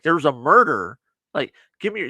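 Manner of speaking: retold yelling. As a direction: act out yelling at a reluctant guard. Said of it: "she's gotta yell at him".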